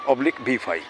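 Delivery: formula spelled out slowly; slow dictation. Shown as a demonstration. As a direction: dictate each part slowly for students to copy. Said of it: "इसका फॉर्मूला याद रखो". (धीरे-धीरे फॉर्मूला बोलना)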